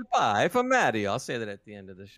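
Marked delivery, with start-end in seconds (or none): 0.0-1.1 slow cartoon Italian sign-off; Mario. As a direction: draw it out as a playful Italian plumber. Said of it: "Mario's not too bad".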